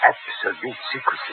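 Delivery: whispered. Acted. Proconsul stresses secrecy.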